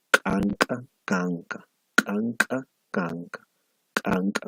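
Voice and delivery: canca said over and over with plain, aspirated and ejective k; minimal set drill. Shown as a demonstration. Teacher modelling Aymara consonant contrasts, slow drill. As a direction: alternate the k sounds in canca. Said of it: "Y aquí tienen ustedes".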